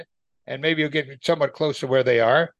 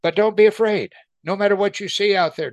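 emphatic exhortation; 4 semitones higher than usual. Real, not acted. Preacher exhorts congregation.

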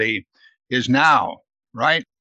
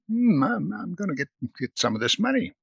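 greedy Judas; 6 semitones higher, 5 dB quieter than usual. Acted. Judas greedy thoughts voiced.

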